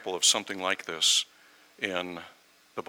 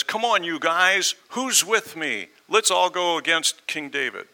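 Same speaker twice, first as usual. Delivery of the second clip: high, raised rebel's rallying cry; loud, pitched-up urging to a crowd; rallying call; 8 semitones higher, 4 dB louder than usual. Acted. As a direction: call followers to join you. Rebel rallies his followers.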